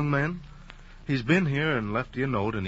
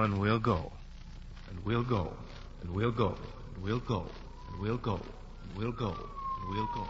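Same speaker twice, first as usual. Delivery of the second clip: softer each time; fading echo; 7 dB quieter than usual. Acted. Doctor's words echo away as she loses consciousness, fading.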